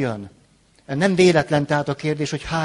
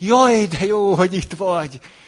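delighted, joyful, glad tone; 4 semitones higher, 3 dB louder than usual. Example of greeting someone who arrived late, joyful and glad. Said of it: "Örömmel is".

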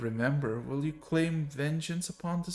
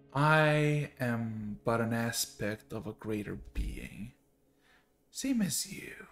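put-on tired, weary, old-sounding voice; 3 semitones lower than usual. Playing a being asked whether it is the beetle from down there, old tired voice. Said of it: "It sounds old and tired".

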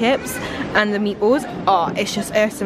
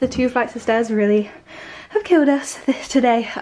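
winded, breathless, puffing and panting between words; 3 semitones higher than usual. Just after carrying things up two flights of stairs while moving out, out of breath. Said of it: "I'm so out of breath".

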